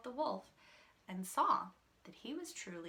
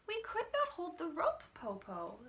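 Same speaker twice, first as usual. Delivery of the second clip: whisper; 7 semitones higher than usual. A narrator's reading. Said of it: "Shang said".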